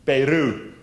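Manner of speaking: "Peru" as PEH-roo, first syllable stressed, Antwerp style; local Antwerp pronunciation. Shown as a demonstration. Lecturer repeats the local Antwerp way for the class. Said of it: "That's how they pronounce it locally".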